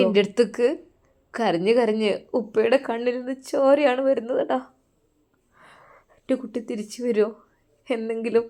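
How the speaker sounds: soft, tearful pleading, a touch of sobbing; sobbing father. Acted. Grieving father asks the young teacher about his daughter, softly tearful. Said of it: "തേങ്ങിക്കൊണ്ട് ചോദിച്ചു".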